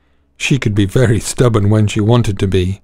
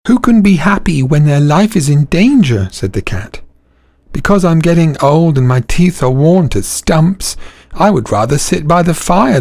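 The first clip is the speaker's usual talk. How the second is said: higher, woeful cat voice; miserable old cat; 5 semitones higher than usual. Acted. Old cat complaining to donkey, higher and woeful. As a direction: moan about your lot.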